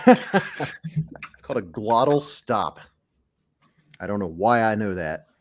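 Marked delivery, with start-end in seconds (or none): 0.0-2.8 laughing. Real, not acted. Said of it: "When the British do that".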